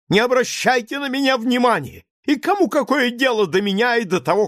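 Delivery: high, loud, near-hysterical rant; hysterical outburst. A narrator's reading. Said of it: "крикнул Лаевский". (истерическая тирада)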